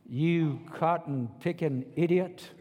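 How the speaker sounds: slow, drawn-out mock scolding; scolding coach. Coach rebuking a player who refused his jersey, scolding. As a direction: chew out the player slowly. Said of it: "You think that's what they'd say?".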